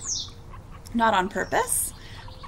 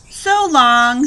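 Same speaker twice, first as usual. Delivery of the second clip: louder, light cheerful send-off; cheerful farewell; 9 dB louder than usual. A narrator's reading. Rosie tumbling away from Hank, cheerful farewell. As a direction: say goodbye cheerfully. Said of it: "said Rosie cheerfully".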